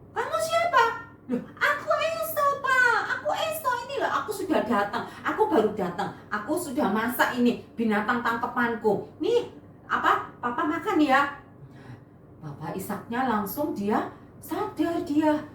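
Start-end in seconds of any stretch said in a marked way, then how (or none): 0.1-0.8 surprised. Acted. Father surprised by second son. 1.3-11.4 insisting son. Acted. Esau insisting to father.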